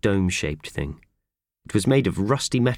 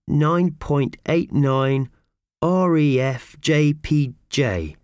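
slow, spelled-out reading; reading slowly; 8 semitones higher, 3 dB louder, much slower than usual. Acted. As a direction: sound out each letter.

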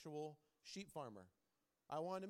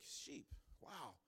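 hushed retold exasperation; 8 dB quieter than usual. Retold farmer despairing of sheep.

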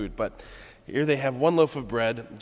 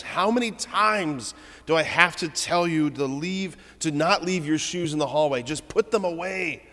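higher and louder, fed-up scolding; frustrated father exploding; 6 semitones higher, 4 dB louder than usual. Retold or imitated. Tired father yelling at his kids about shoes, higher and louder. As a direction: blow up at the kids over the shoes. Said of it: "he explodes on his kids".

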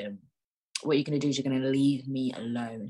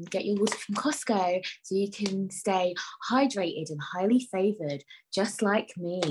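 ad read; 2 semitones higher than usual. Pretend. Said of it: "I could do an advert".

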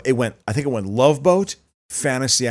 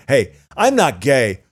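mock disclaimer; 3 semitones higher, 4 dB louder than usual. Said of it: "the homosexual disclaimer".

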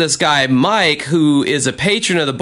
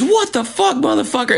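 much higher, imitating an angry challenge; mock angry yell; 12 semitones higher than usual. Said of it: "He goes".

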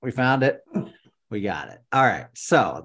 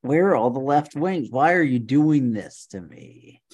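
exasperated plea; 3 semitones higher, 5 dB louder than usual. Real, not acted. Pleading with an unhelpful website.

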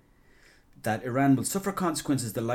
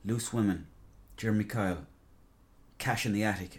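disappointed. Retold or imitated. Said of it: "now it's just like".

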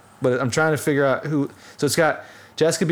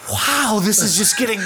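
mock excitement; 6 semitones higher, 3 dB louder than usual. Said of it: "And I was like".

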